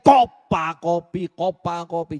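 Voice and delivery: loud, drawn-out first burst, easing off on the repeat; mock irritated yell. Annoyed wife answering husband's coffee request, in a mock yell. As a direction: yell it back mockingly, then let it drop. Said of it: "Jangan diteriakin".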